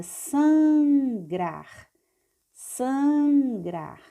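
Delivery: "sangrar" with a long held first syllable; slow demonstrative reading of "sangrar". Shown as a demonstration. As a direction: stretch the san of "sangrar", then land on grar. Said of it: "vamos ler passo a passo".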